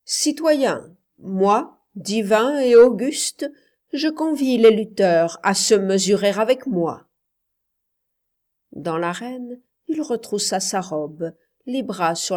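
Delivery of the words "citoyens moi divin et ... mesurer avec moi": louder, distinct public address; an emperor's clear, projected challenge; distinct proclamation. A narrator's reading. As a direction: proclaim it distinctly to the whole circus. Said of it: "et, distinctement".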